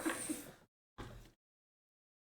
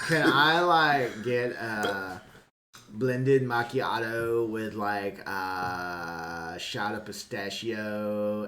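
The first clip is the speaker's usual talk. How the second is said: put-on slow, drawn-out girly order; white girl order; much slower than usual. Friend mocking a Starbucks order, slow and drawled. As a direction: stretch each word like a picky customer. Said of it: "The like in the middle of every order".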